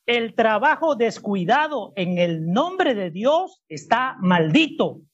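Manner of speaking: slow, deliberate scripture reading; lectura pausada. Shown as a demonstration. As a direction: read slowly, phrase by phrase. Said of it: "Pero leo mi versión". (leyendo despacio y con pausas)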